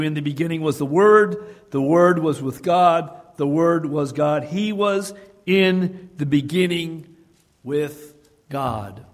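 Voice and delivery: solemn Bible reading; scripture reading. Acted. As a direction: read John as a proclamation. Quoting John one aloud.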